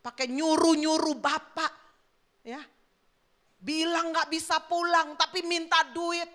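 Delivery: mock-angry father's outburst; indignant, acted scolding. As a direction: play an offended dad fuming. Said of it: "dia marah".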